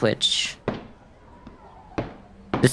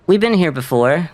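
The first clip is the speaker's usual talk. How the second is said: ordinary talk, nothing marked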